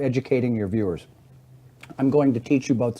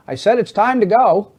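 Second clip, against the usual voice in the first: higher, insistent repeat; wife repeating herself; 6 semitones higher, 3 dB louder than usual. Acted. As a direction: repeat it a bit more firmly to a spouse. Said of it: "now she's yelling at you".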